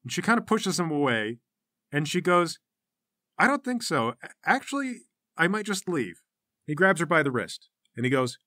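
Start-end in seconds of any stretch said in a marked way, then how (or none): 3.4-6.2 high-pitched, halting pushback; tentative refusal. Acted. Sasha pulling away from the leader, tentative refusal.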